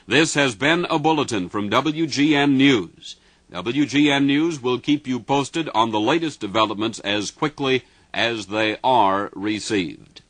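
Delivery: grave bulletin announcer read. Real, not acted. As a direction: deliver it like a radio newsman. Radio news bulletins.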